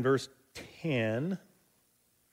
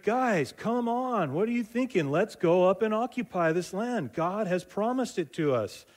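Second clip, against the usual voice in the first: higher, pleading push to go; urging the crowd; 8 semitones higher than usual. Retold or imitated. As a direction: coax friends who are hanging back. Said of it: "He's like".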